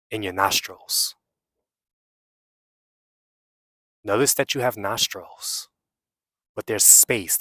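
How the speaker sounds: unhurried meditation guide with long pauses; guided meditation. Real, not acted. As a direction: guide them inward, leaving long silences between phrases.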